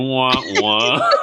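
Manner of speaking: sung wah wah like a trombone; sad trombone imitation. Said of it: "might as well have a sad trombone going".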